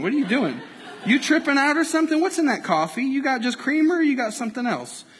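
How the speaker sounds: lightly voiced quizzical friend; puzzled friend. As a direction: ask why they keep dodging, half laughing. Acting friend dodging the beam.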